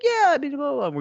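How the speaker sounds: mocking high voice. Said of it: "and I was just like".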